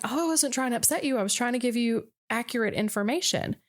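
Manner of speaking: lightly acted startled self-defence; retold shock. Wife voicing husband explaining he meant no harm, mildly shocked. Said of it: "he was just shocked".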